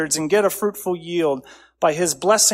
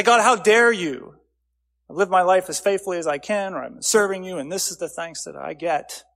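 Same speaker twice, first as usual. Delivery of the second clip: complaining. Retold or imitated. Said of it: "moan and complain to God".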